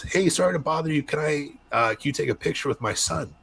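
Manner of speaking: high, sweet imitation of a polite mom asking a favor. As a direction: put on the mom's high, overly polite voice. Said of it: "And she goes".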